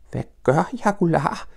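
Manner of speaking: high, worried little question; hoping the answer is harmless; anxious Piglet. Acted. Piglet asks Pooh about jagulars, high and worried. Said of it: "spurgte grislingen og håbede".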